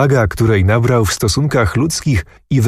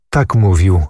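ordinary delivery, nothing marked

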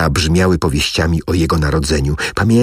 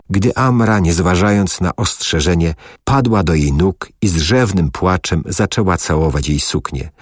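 ordinary delivery

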